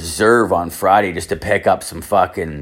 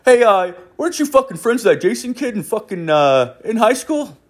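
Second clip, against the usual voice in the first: much higher put-on voice for the old man; imitating dad; 12 semitones higher than usual. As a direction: play the father bringing up the gossip, high. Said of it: "Two minutes after sitting down".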